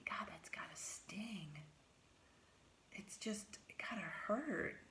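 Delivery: put-on wincing at the girl's sore lips; whispered wince. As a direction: breathe it out in sympathy. Silent thought watching her lips.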